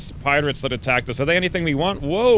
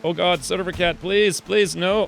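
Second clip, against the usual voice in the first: anguished denial; 4 semitones higher, slower than usual. Real, not acted. Colonist about to be knocked out.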